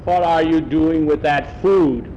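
slow, loud accusing question; angry farmer. Acted. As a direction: demand it slowly, accusingly. Farmer confronts boy.

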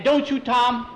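high, loud plea; alarmed plea. A narrator's reading. Skeeter comes out and pleads with Tom, alarmed.

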